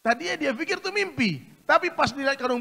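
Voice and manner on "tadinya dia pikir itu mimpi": ordinary talk, nothing marked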